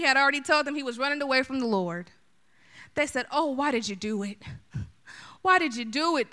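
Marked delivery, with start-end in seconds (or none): 3.3-6.3 groaning. Acted. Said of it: "they groaned".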